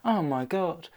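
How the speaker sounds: mildly amazed pig voice; British pig. Acted. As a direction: gasp it as the astonished pig. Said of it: "This British pig will look up and go".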